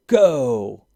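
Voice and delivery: loud, sharp call to start the race; shouted start. A narrator's reading. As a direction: bark out the start signal. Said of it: "Dominic shouted".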